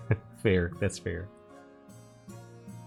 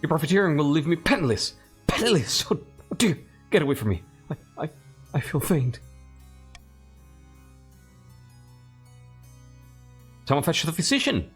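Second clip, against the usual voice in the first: hammed-up fainting aristocrat; melodramatic noble; 5 semitones higher than usual. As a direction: overdo the swooning noble, rising. Voices frightened noble character.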